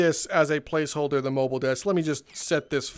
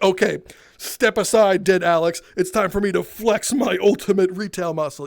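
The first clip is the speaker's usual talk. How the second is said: mock heroic; 4 dB louder than usual. Narrator steps in heroically.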